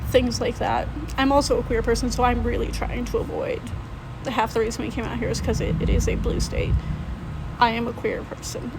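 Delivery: shaky, worn-out voice after crying. Real, not acted. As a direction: talk through the tail end of tears. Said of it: "sorry, I've been crying and I'm trying to get my emotions out".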